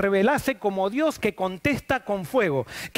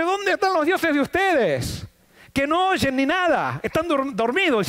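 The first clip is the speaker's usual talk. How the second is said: higher, slow sneering taunt; mocking taunt; 5 semitones higher, slower than usual. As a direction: jeer at the priests of Baal's gods. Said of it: "Se burla y le dice".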